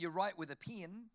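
"pin" for pen, Kiwi style; New Zealand short i in "pin"; Kiwi vowels. Shown as a demonstration. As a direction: say "pin" where pen is meant. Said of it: "they do their vowels in reverse".

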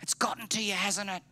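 high, strained voice of outraged disbelief; enraged Peter. Acted. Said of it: "Peter is enraged. He's incensed".

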